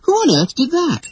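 high, put-out question; high-pitched indignation; indignant cry. A narrator's reading. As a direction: demand to know, just hurt. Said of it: "Wendy cried".

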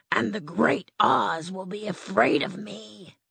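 lightly voiced timid lion; a hint of a nervous big cat; cowardly lion. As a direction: play the lion, a bit unsure. Lion boasting.

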